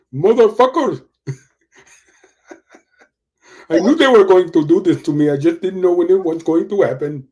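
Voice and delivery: hammed-up fit of cussing at home, betrayed; mock cussing rant. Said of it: "I bet Vivek went home and started cussing".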